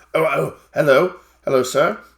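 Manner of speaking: nervous stammering. Game master voicing a man suddenly nervous at a visitor's approach, nervous stuttering. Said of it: "he stutters immensely".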